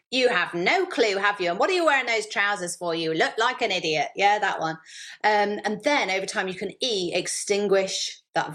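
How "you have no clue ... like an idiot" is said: a touch of a sneering inner critic, slowish start; lightly mocking herself in Sybil's voice. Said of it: "that's how she sounds".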